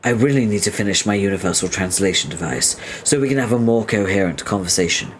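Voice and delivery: formal, courteous greeting; polite engineer. Acted. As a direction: offer help with stiff courtesy. Voices polite engineer character.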